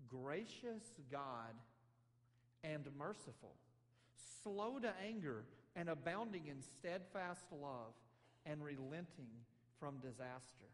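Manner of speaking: very slow, begrudging listing of God's virtues; grudging recital. Acted. Jonah listing God's mercy as a complaint, slow and grudging. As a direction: spit the praises out like faults. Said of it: "the horrible things he has to complain about God".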